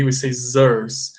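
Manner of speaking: zers with both s sounds as a buzzing z; buzzy z sound. Shown as a demonstration. Teacher showing the z sound in scissors. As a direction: say zers, leaning on the z buzz. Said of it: "Como se fosse assim".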